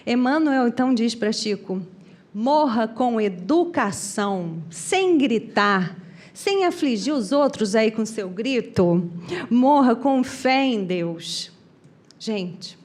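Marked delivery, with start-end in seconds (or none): 2.3-11.5 slow, deliberate telling-off; measured admonishment. Retold or imitated. Spirit tells screaming Chico how to die, slow imitated admonishment. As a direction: spell it out slowly, phrase by phrase.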